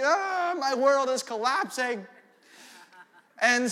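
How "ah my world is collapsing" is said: mock kid despair. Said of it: "I'm just a little guy".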